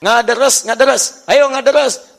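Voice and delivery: Sundanese parent urging. Retold or imitated. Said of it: "Kalau di Sunda itu orang tua mengatakan".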